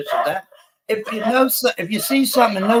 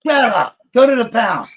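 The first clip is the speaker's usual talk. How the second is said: raised, higher snap at the dog; telling off the dog; 4 semitones higher, 4 dB louder than usual. Real, not acted. Streamer yelling at his dog to hush, raised voice. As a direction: shout it off to the side. Yells at barking dog off-mic.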